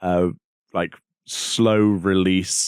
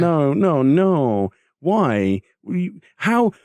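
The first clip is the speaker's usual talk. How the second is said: rising disbelieving protests, higher; mock disbelief; 9 semitones higher, much slower than usual. Joking to co-host about the moon intro, high incredulous protest.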